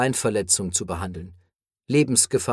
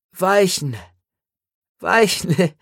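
higher, drawn-out falling repeats; delirious repetition; 6 semitones higher, 3 dB louder, slower than usual. A narrator's reading. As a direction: repeat it dreamily, each word falling. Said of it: "Er deliriert". (höher, gedehnt fallend wiederholt)

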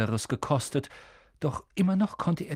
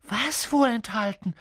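put-on higher-pitched, eager boy's question; 9 semitones higher than usual. A narrator's reading. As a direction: ask keenly, wanting to know. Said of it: "fragte Harry begierig".

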